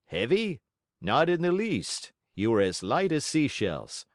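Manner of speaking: lightly voiced cheerful fish; jolly fish. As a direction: brush off the worry kindly. Tunny laughs it off.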